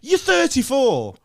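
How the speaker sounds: slow, emphatic listing. Real, not acted. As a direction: spell it out slowly. Listing his stats.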